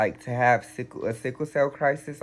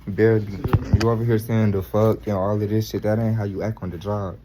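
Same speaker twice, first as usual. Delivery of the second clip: scolding; 3 semitones lower, 5 dB louder than usual. Acted. Skit, boss scolding worker.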